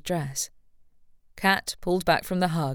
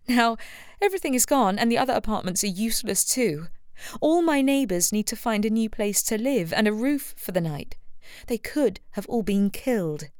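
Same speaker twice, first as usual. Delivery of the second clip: put-on higher, anguished young woman pacing; rising distress over lost home; distraught Rebecca; 6 semitones higher than usual. A narrator's reading. Rebecca voiced by narrator.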